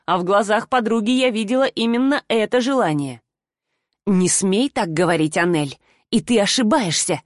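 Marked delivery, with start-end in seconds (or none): 4.1-7.2 measured, restrained calm; as calm as possible. Acted. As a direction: keep the reply steady and even despite the insult. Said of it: "как можно спокойнее ответила".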